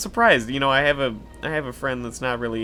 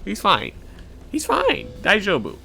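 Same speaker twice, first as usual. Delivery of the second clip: mock reassurance; 9 semitones higher, 4 dB louder than usual. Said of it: "They're like".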